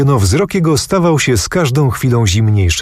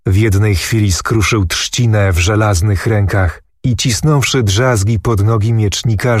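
usual speaking voice

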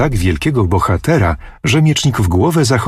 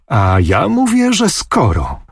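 insistent, A ja mówię jumping high, falling on że skoro; a girlish pout of stubborn insistence; stamping her foot; 6 semitones higher than usual. A narrator's reading. Anusia insists against the teasing sword-bearer, pouting and stubborn. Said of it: "tupiąc nóżką".

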